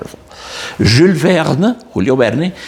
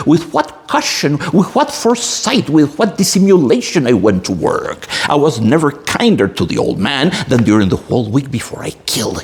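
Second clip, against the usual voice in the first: dramatic story reading. Acted. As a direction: read it like a storyteller gripping the audience.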